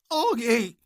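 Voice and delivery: high anguished cry of a name; mournful groan. Acted. Oscar finds his dying brother, mournful cry. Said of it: "came out in a mournful groan".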